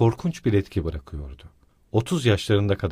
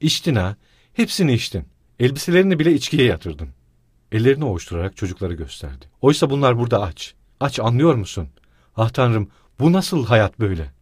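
desperate wailing; 4 dB louder than usual. Acted. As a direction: wail at the top of her lungs. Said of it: "olanca soluğuyla haykırıyordu".

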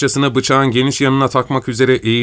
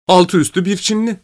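sergeant giving in; 9 semitones higher than usual. A narrator's reading. Sergeant agreeing to execute anyway, careless. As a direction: wave it through with a careless shrug.

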